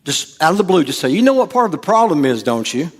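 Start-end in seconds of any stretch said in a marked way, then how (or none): 1.1-2.9 raised, fast teasing question; knowing jab. Shown as a demonstration. Preacher showing what to say in an argument. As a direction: toss it out like a jab. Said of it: "I want you to say".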